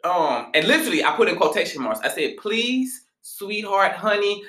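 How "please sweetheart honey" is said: higher, gently pleading pet names; placating endearments. Retold or imitated. Reader softening a message to a client, placating. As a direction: coax politely, pitched up. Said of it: "I'm not mad or I'm not feeling a type".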